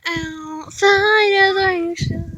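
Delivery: slow drawn-out silly voice; put-on voice. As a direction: stretch it out in a goofy put-on voice. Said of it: "That's not my real voice".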